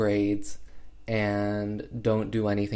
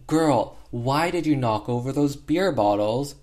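mock angry dad; 3 semitones higher, 4 dB louder than usual. Drunk dad scolding daughter.

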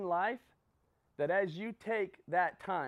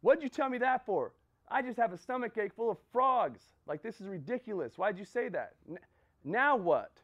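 louder, higher, angry demand at the guru; ticked-off complaint; 4 semitones higher, 3 dB louder than usual. Retold or imitated. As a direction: confront the guru, fed up and loud. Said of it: "He's ticked".

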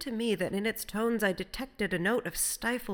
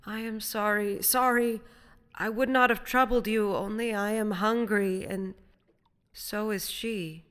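higher, pleading castaway voice; hopeless, pathetic; 4 semitones higher, 5 dB louder than usual. A narrator's reading. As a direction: plead forlornly from out on the water. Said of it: "sounding extremely hopeless and pathetic".

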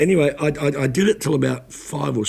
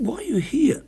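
whisper; 13 semitones higher than usual. Retold or imitated. Gently asking the grieving widower.

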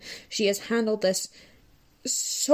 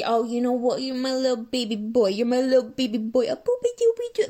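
mock baby talk; 3 semitones higher than usual. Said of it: "she bows down and says".

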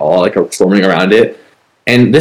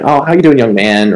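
put-on polite old lady; 3 semitones higher than usual. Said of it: "she was, like, super polite".

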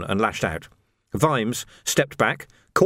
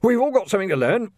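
high, strained winded voice; hammed-up breathlessness after a blow; theatrical wheezing; 11 semitones higher, 4 dB louder than usual. A narrator's reading. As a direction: wheeze it out, overplaying the pain. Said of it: "wheezing a little more theatrically".

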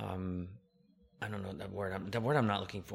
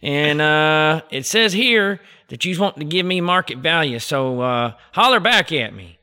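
Cooter Scoots hick voice; 8 semitones higher, 17 dB louder than usual. Acted. Prank-calling a land investor in an exaggerated Southern accent. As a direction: play a rural Southern landowner in a thick Southern accent. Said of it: "this here's Cooter Scoots".

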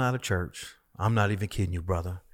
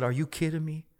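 laughing joy; 2 semitones higher than usual. Retold or imitated. Retold joy while laughing.

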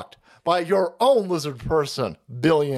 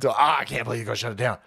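mock whine; 7 semitones lower, faster than usual. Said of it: "fucking chicks are".

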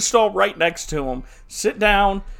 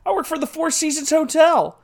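third father; 11 semitones higher than usual. Acted. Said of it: "He goes".

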